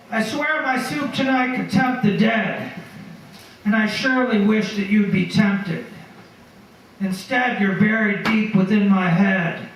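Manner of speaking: measured poetry reading with pauses between lines; poem recitation. Acted. Poet reads a memorial quatrain to an audience, measured recitation. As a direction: read the verse out deliberately, line by line.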